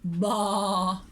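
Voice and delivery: put-on low bleat for the kids; sheep baa. Shown as a demonstration. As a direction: baa it like a lamb. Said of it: "their noise is like this".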